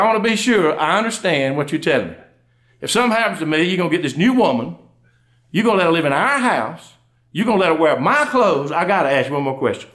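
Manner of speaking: measured, emphatic wife's interrogation; mock mad. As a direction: lay out each grievance with controlled, acted anger. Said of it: "She went from sad to mad by then".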